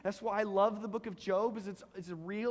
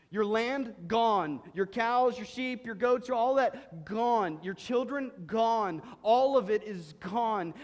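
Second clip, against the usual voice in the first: each loss hit louder, landing hard on gone; dramatic louder pronouncement; emphatic declaration; 2 semitones higher, 6 dB louder, slower than usual. Acted. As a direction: pound out the list of losses. Preacher hammers the losses.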